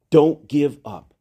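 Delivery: Don't give up, said slowly and gravely; slow it down and mean it; slow sincere urging; slow earnest plea. Shown as a demonstration.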